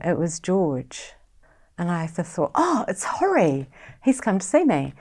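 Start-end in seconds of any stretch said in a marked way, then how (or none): 2.6-4.9 higher, mildly delighted realisation; pleased recognition. Retold or imitated. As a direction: recall a happy little "oh" of recognition. Pleased thought at a visitor.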